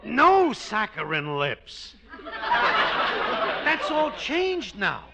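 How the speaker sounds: slow words broken by chuckles; laughing slowly. Acted. Husband chuckles slowly as he tells his wife the plan changed. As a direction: chuckle through it, drawn out.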